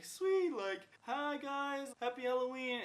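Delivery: high-pitched, eager mock welcome; cheery door greeting. Acted greeting to trick-or-treaters at door.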